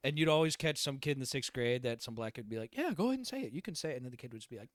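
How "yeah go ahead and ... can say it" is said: higher, teasing dare to a classmate; a kid egging another on; mock taunting kid. Sixth grader daring a white kid, teasing.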